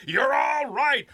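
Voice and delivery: loud slow shout; calming shout. A narrator's reading. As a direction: bellow back slowly to reassure. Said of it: "exchanged shout for shout".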